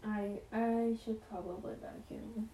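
spinning in chair, voice fading away; voice dipping while spinning. Real, not acted. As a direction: turn away from the mic mid-sentence. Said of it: "I'm spinning around looking at my floor".

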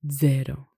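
"zero" opened with a D before the Z; DZ sound. Shown as a demonstration. Teacher demonstrates the single Italian Z, starting with DZ. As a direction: say "zero" as dzero. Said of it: "with a D sound added at the beginning".

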